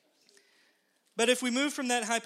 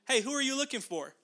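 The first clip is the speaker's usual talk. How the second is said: humorous, teasing question; 4 semitones higher, faster than usual. Retold or imitated. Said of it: "he adds a humorous other question".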